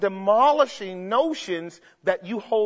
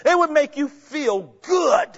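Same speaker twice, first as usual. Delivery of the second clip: preaching shout; 3 semitones higher than usual. Real, not acted. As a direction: cry it out to the church.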